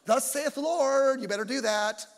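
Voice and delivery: hammed-up niceness on a stern command; wimpy prophet parody. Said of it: "talk like that".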